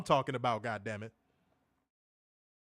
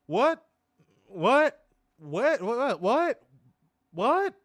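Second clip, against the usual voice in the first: high, loud repeated what; loud squeaky laughing what; laughing disbelief; 8 semitones higher, 6 dB louder, much slower than usual. Real, not acted. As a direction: keep asking what, cracking up.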